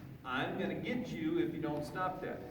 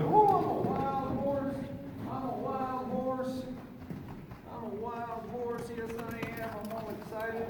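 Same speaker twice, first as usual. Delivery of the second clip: excited horse voice; 6 semitones higher than usual. Acted. Trainer voicing his excited young horse, playful high mock excitement. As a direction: play the giddy horse, stretching it out up high. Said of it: "He's going".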